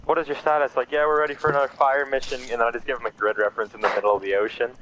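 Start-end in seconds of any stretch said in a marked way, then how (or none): 0.1-0.8 raised, clipped radio call; radio operator voice. Retold or imitated. Radio voice in story. 0.9-2.4 raised, clipped radio call; radio operator voice. Retold or imitated. Radio voice in story.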